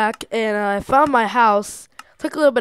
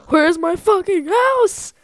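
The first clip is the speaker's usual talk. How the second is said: higher, louder, slow exasperated yell; frustrated shout; 9 semitones higher, 6 dB louder, slower than usual. Real, not acted. Player still can't find his house, yelling angrily. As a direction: let the frustration burst out.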